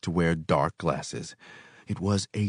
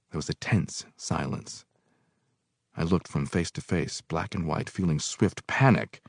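ordinary delivery

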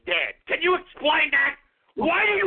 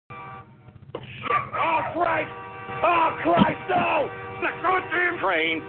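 frantic, scared shouting; panicked yelling; 4 semitones higher, slower than usual. Real, not acted. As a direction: yell in a panic at the danger. Panicking as train approaches.

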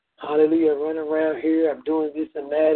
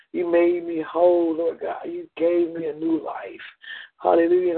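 fervent prayer. Real, not acted. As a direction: pour it out to God in rising waves. Impassioned spoken prayer.

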